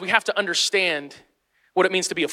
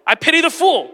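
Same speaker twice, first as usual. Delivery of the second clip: higher, punchy tough-guy catchphrase with a falling "fool"; Mister T catchphrase; 8 semitones higher, 4 dB louder than usual. Retold or imitated. Pastor doing Mister T's catchphrase for the congregation, mock tough. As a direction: bark it like the A-Team tough guy. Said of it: "his catchphrase was".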